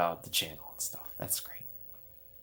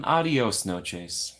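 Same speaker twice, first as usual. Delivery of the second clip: slow mock Spanish; much slower than usual. Shown as a demonstration.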